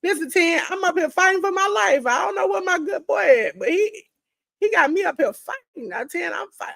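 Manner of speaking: a high, put-on plea to Mister Ten for help; mock plea. Pleading to Ten, fighting for life.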